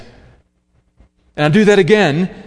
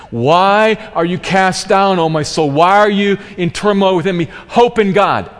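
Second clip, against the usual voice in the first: louder, pleading rhetorical questions; psalmist speaking to his soul; 3 semitones higher, 3 dB louder than usual. Retold or imitated. Psalmist rousing his own downcast soul, raised and earnest. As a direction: call out to your own soul. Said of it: "He keeps repeating that".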